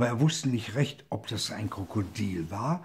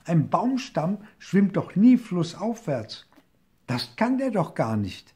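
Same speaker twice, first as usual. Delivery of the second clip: higher, louder teasing; mocking shout; 7 semitones higher, 4 dB louder than usual. A narrator's reading. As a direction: jeer at the crocodile. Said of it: "schrie er". (lauter, spöttischer Ruf)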